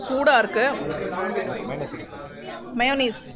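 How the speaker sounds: chewing while talking; speaking around hot food; mouth full of chicken. Real, not acted. Seen 1: Bit chicken at -4; cheeks and lips show chewing through speech.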